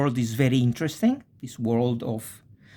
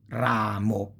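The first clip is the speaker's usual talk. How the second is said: ramo with a long, weighted ra; stress on second-to-last. Shown as a demonstration. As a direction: draw out RA, then drop mo. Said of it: "Second to last".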